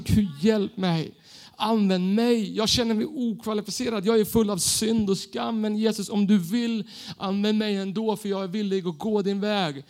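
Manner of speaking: slow, humble prayer. Acted. Believer on his knees asking God for help, slow prayer. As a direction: pray it slowly, surrendering.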